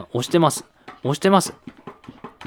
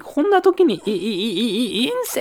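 alarmed stammer; 8 semitones higher than usual. Pretend.

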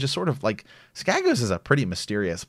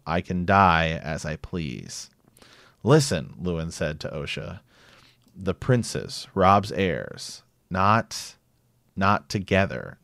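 reads the chapter in a measured audiobook voice with light character voicing; story narration. Host reads Bran chapter aloud to co-host, audiobook narration. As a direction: tell the scene like an audiobook, steady and grave.

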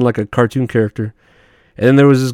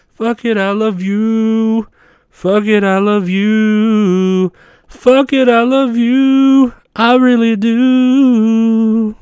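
laughing gushing; 11 semitones higher, much slower than usual. Pretend. Laughing, sing-song exaggerated affection.

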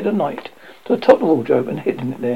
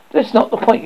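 sharp, higher comeback; retort; 7 semitones higher than usual. A narrator's reading. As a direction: snap back a retort.

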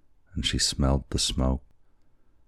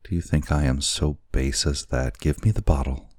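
put-on urgent young wife. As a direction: demand it with urgency. Kokua urgent.

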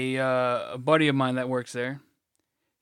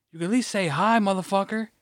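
higher-pitched mock indignation; indignant retort; 6 semitones higher than usual. Retold coworker scolding him for not saying hi, indignant. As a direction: demand a greeting, affronted.

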